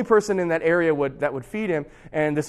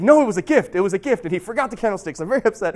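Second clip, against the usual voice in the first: higher-pitched, emphatic mock protest; insistent priest; 3 semitones higher, 4 dB louder, faster than usual. Priest tells the police the silver was a gift, insistent. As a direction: act out an insistent priest covering for his guest.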